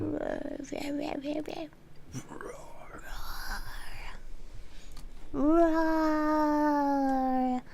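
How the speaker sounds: playful growled metal roars. Pretend. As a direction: roar like a metal singer. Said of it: "Can you use your metal voice when you rage?".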